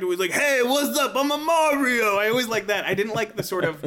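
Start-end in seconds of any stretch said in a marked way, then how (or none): 0.3-2.2 put-on thick Brooklyn accent, loud and slow. Speaker recalling the Mario voice they preferred: thick Brooklyn Mario voice. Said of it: "a thick Brooklyn accent".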